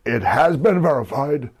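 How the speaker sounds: mock arena announcement, laughing; ring announcer. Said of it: "He goes".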